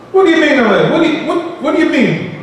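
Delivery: high, affronted protest with a laugh; indignant retort. Retold or imitated. Older relative scoffing at advice, indignant. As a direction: scoff at being told to fear Allah.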